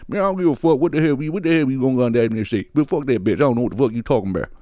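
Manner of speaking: muttered, rapid rant in an imitated voice; lightly voiced older man grumbling through curses; older man going off. Comedian mimics older men who take no nonsense, grumbling rant. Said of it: "And it turns into".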